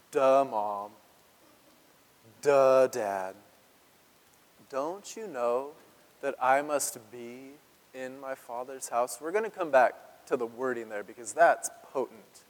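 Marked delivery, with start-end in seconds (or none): 0.1-9.2 mock duh. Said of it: "It's almost like Jesus, like".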